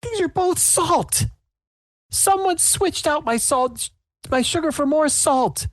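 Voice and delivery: very high, slow dramatic vow; betrayed baker. Acted. Baker discovers her sugar swapped for salt, very high slow vow. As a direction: declare the betrayal with grand outrage. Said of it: "she's like".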